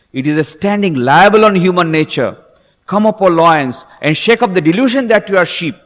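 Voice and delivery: rally the listeners with each phrase; rousing preaching. Acted. Preacher quoting Vivekananda to wake up listeners, rousing declamation.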